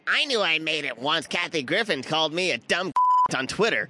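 lightly voiced nerdy know-it-all; a hint of a nerd voice. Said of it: "The nerd is the accent".

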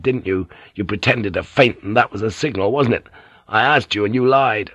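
corner her with each question; angry accusation. Acted. Blackthorn accuses Mariko.

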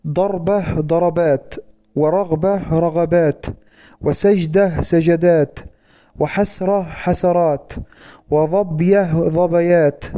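فتح العين in ضربات and رغبات, each pair said slowly; slow plural demo. Shown as a demonstration. Teacher listing plural patterns for students, slow and clear. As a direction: model ضربة ضربات with open middle vowel, unhurried. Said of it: "فتقول".

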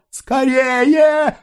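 a very high, drawn-out urging voice; urgent hurry. A narrator's reading. Mother hurries the wounded boy toward the gate, high urgent voice. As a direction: hurry him along. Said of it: "торопила мать".

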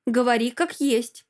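mildly insistent demand; brazen urging. Acted. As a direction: butt in, pushy. Friend butting into the quarrel.

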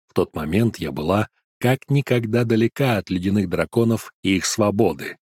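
usual speaking voice

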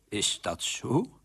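slow, tearful little question; trembling voice. Acted. King hears his people suffer, trembling and tearful. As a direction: ask it slowly, close to tears. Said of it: "met bibberende stem".

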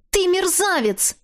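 high, slow outraged cry. A narrator's reading. Captive woman crying out at her kidnapper. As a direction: hurl the insult at him.

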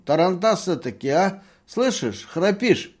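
high, loud drunken mockery; drunken taunting. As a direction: needle the snoring merchant like a drunk. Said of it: "говорил доктор пьяным голосом". (пьяная насмешка, высоко и громко)

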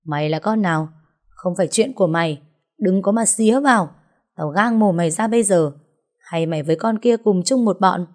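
lightly acted threat, pitch lifting; hostile jealous wife. Wife telling an intruder to stay out, mildly acted hostile threat. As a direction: warn the intruder off. Wife challenges the intervening narrator.

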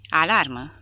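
loud alarm call; yelled alarm. Acted. Someone in the barracks yelling the air raid alarm, loud. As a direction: yell the warning out. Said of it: "urlă cineva".

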